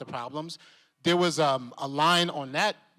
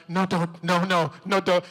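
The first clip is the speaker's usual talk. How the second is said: pleading through laughter; 2 semitones higher, 6 dB louder than usual. Retold or imitated. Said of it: "he would be like".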